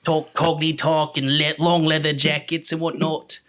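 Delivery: a mock Cockney accent that slips; hammed-up Cockney. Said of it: "trying to do a Cockney accent".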